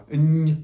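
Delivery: "N" said as the Spanish ñ sound; palatal n sound. Shown as a demonstration. Teacher comparing with Spanish, palatal "N". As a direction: say "N" as a held ny sound. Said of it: "just like in Spanish".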